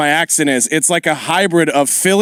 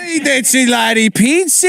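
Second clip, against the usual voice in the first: put-on Italian accent; 6 semitones higher than usual. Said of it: "mimics Italian stereotype".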